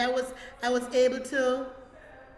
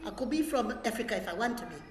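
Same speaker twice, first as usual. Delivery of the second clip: lightly put-on African accent. Shown as a demonstration. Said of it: "to sound like somebody else".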